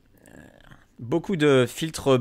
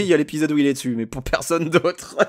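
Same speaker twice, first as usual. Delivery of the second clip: mustache twirling villain; 2 semitones higher than usual. Pretend. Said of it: "faire un rire machiavélique".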